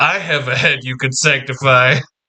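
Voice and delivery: smug smirking voice. Speaking in character to Sister Ruby, looking for trouble: smirking. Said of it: "with a smirk".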